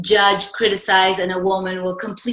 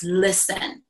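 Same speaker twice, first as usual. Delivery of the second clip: a soft, grave "Listen." to draw her in; quiet serious listen; 4 dB quieter than usual. Retold or imitated. Friend quietly urging her to listen, hushed and grave. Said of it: "I had never seen Ginger so serious".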